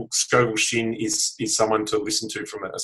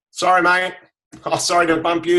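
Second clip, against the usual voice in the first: higher, louder quick sorry to a stranger; breezy apology; 7 semitones higher, 4 dB louder than usual. Pretend. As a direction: toss off a light, easy apology.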